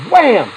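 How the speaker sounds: punchy "wham" sound effect; imitated punch. Dad retelling his son's punch, imitated impact. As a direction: act out the hit with one burst.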